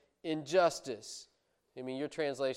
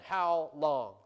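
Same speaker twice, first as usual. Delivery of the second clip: calling out; 3 semitones higher, 6 dB louder than usual. Acted. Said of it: "he's calling out to God".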